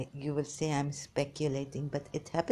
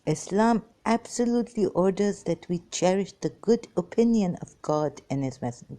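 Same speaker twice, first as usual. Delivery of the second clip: louder, insistent recitation; louder emphatic reading; 3 semitones higher, 5 dB louder than usual. Shown as a demonstration. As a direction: read the verse out louder, driving it home. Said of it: "you Sunnis also look here".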